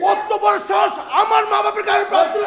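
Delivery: outraged shout. Acted. Outraged at parents struck.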